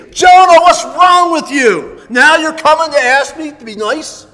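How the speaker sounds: high, loud exasperated rebuke, building to a shout; indignant scolding. Acted. Preacher acting as God confronting disobedient Jonah, exasperated scolding. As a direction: call the name like an angry parent, then scold.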